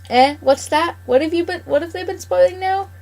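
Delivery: put-on old farmer's wife demanding answers; suspicious old wife. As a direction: needle him like a nagging wife. Mrs McGregor questions her husband.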